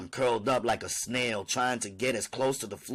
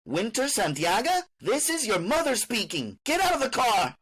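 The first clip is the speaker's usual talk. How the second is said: high, commanding mother voice, rising louder; demanding; 12 semitones higher, 4 dB louder than usual. Acted. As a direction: order her out like you're in charge. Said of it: "she demanded, like she was in charge".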